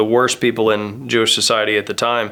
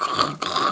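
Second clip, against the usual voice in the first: unvoiced throat rasp imitating ripping paper; two short rough ripping noises made by mouth; imitated wrapping tear; 7 dB quieter than usual. Pastor mimes a bored present-opener, imitated tearing noise.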